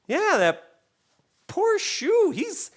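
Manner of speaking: put-on high childish voice; kid voice. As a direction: play your younger self, earnest kid. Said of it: "I was more just like".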